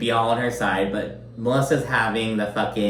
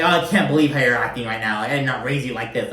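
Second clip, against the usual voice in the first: quick mock-scolding, lightly voiced mother; faster than usual. Recapper mimics Margaret talking to Jackie like her mother, lightly scolding. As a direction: imitate a mother telling off her child at a fast pace. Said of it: "talking to Jackie like she's her fucking mother".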